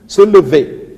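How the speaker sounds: last syllable of "lever" punched high and loud; accent on vé. Shown as a demonstration. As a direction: hit the "ver" of "lever" hard. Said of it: "Sur le V, tu mets un accent".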